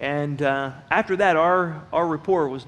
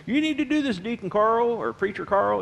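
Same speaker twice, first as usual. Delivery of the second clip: mocking taunt; 4 semitones higher than usual. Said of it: "he'd call me these things".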